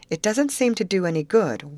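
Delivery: lightly wailing that nothing works; a touch of despair; hopeless wail. Acted. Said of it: "wailed Betty, hopelessly".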